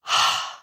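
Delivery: a weary, let-it-all-go sigh; tired end-of-day sigh. Shown as a demonstration. Teacher showing the exhale as an end-of-day sigh. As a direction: sigh like you just got home after a long day. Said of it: "Like at the end of the day".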